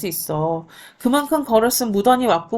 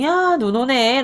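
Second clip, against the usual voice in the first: a touch of put-on cheer, slightly higher; forced brightness; 4 semitones higher, slower than usual. Younger brother faking cheer to his dying brother, mildly forced bright. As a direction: lightly fake a cheerful tone. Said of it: "일부러 밝은 척을 하죠".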